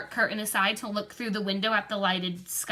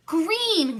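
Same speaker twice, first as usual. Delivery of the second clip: put-on higher, louder childish wail; 7 semitones higher, 4 dB louder than usual. A narrator's reading. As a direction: cry out the word in dismay. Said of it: "Christy wailed".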